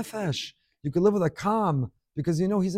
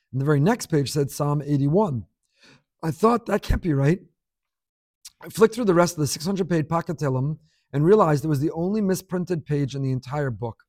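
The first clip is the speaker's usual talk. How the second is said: letter reading. Acted. Reads a listener's email story aloud.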